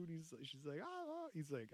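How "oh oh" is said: mock whimper. Voicing Tina whimpering.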